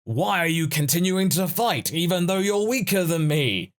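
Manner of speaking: a hammed-up exasperated protest; frustrated. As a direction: play a villain losing patience. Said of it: "Gas is gonna get frustrated and go".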